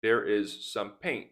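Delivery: "paint" at the end said like "pain", no T; dropped T. Shown as a demonstration. Teacher gives learners an example sentence, "paint" without its T. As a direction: leave the T off "paint" as the sentence ends. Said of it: "sometimes you can say paint".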